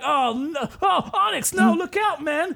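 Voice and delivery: high-pitched panicked warning; hammed-up distressed trainer; Brock. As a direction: cry out high in mock alarm. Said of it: "And Brock's there like".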